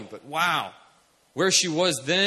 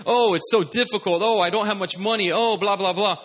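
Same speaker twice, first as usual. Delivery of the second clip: higher, louder mock moaning; mock fearful complaining; 3 semitones higher, 4 dB louder than usual. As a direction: rattle off complaints dismissively. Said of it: "focus on this fear".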